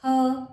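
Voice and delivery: her said as a lone, punched 'huh'; isolated h sound. Shown as a demonstration. Teacher giving learners the letter's sound, isolated h. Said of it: "और ह इसका sound है".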